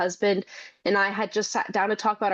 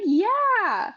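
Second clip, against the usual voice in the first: put-on little girl voice; 13 semitones higher than usual. Mother quoting her small daughter.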